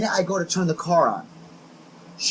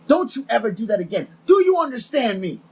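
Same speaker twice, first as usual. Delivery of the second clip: imitating a scolding date; 5 semitones higher, 3 dB louder than usual. Date scolds him in car.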